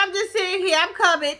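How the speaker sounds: innocent high chirp; high sing-song voice. Pretend. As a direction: play it sweet and innocent. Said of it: "you coulda been like".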